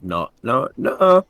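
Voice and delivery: put-on orc refusing in a Yorkshire accent; flat Yorkshire no, last one jumping high. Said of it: "in the Yorkshire accent".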